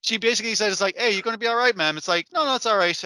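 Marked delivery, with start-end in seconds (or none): 1.0-2.0 mock concerned daughter. Voicing the mother in a story. 2.3-3.0 mock frail grandmother. Voicing the dying grandmother.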